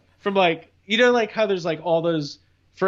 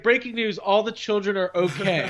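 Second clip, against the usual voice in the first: mock news anchor; 3 semitones higher than usual. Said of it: "they're gonna be like".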